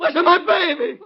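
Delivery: slow, high, breaking cry; desperate plea. Acted. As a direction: beg to know, voice cracking. Father frantic, near breaking.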